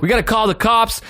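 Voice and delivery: kind of freaking out. Retold or imitated. Carjacking victim urges strangers to help, kind of freaking out. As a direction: imitate a rattled man pressing for action. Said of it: "He was, like, kind of freaking out".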